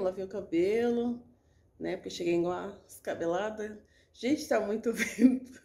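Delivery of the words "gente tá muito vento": slow, with a laugh in it. Real, not acted. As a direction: laugh through the words. Laughs about the wind.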